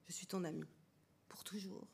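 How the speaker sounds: soft, low reassurance; hushed, intimate vow; tender promise. A narrator's reading. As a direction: promise it gently, dropping almost to nothing. Intimate promise of friendship in bath.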